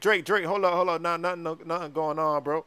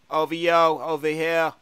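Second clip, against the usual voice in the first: singsong rapper imitation; 7 dB louder than usual. Acted. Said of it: "sounds like he's singing or something".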